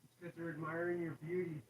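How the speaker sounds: distant, off-mic teasing; far off. Real, not acted. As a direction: tease from across the room.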